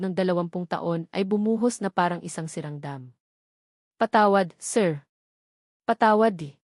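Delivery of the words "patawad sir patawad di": sobbing. A narrator's reading. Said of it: "Hagulgol nito".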